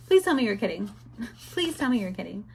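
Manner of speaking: fast laughing plea; laughing disbelief. Retold or imitated. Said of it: "It literally made me so angry".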